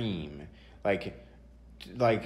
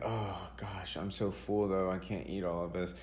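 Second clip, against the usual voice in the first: put-on whiny kid; 2 semitones lower, 7 dB quieter than usual. His kid self complaining, full.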